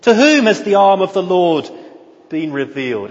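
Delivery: high, pained pleading questions; anguished prophet crying out. Shown as a demonstration. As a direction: plead as if heartbroken. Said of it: "It's a cry of anguish".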